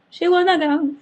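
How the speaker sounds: shrieking. Real, not acted. Vlogger shrieking the twist to viewers, high and loud. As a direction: squeal it in disbelief. Repeated punchline, escalating.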